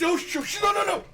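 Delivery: whiny villain. Retold or imitated. Acting Palpatine's whiny cry.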